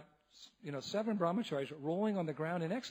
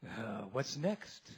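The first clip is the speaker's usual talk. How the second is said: slow tipsy drawl; 7 semitones lower, 5 dB quieter, much slower than usual. Retold or imitated. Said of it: "he said".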